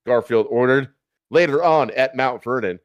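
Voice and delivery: ordinary talk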